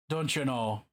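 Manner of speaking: a put-on Irish lilt for the stream; playful mock Irish brogue; hammed-up Irish accent. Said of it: "I tuned in at a great time with the accent".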